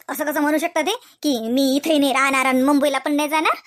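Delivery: an upset wife airing her grievances; indignant wife. Acted. A wife venting to herself about her husband's father, indignant.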